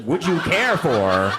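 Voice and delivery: slow, drawn-out posh "Would you care for?" with weight on "care"; posh English. Retold or imitated. Dad savouring daughter's posh phrase, slow drawn-out posh delivery. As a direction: savour "care" like a Downton Abbey butler. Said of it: "Downton Abbey level English".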